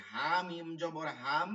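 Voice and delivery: drawn-out recitation of হা মিম জবর হাম; slow spelled recitation. Shown as a demonstration. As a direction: spell হাম out slowly, letter by letter. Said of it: "এই গোল হা থেকে".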